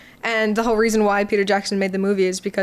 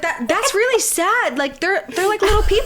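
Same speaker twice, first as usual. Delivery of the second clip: retold pity; 10 semitones higher than usual. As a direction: plead plaintively, imitating upset friends. Friends pitying hobbits, retold.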